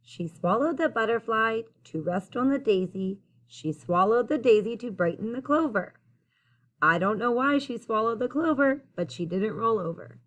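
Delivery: clear, lilting rhymed storytelling; picture-book read-aloud. A narrator's reading. Reader telling children about the old lady, lilting storytime read-aloud. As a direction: read the rhyme out to young listeners.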